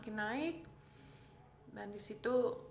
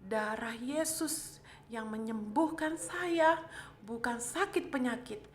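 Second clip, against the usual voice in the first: slow, emphatic declaration of faith; declaring prayer. Retold or imitated. Patient declares healing over her illness, retold emphatic prayer. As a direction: proclaim it deliberately, word by word.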